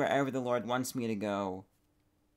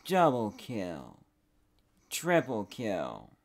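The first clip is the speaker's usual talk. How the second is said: game announcer; much slower than usual. Pretend. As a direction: boom it out like a shooter announcer. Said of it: "video game title".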